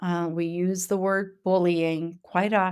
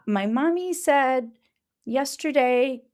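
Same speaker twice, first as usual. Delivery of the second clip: lightly voiced little child, a bit higher; 4 semitones higher, slower than usual. Educator mimicking a toddler talking about mommy: lightly higher child voice. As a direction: chatter like a toddler retelling.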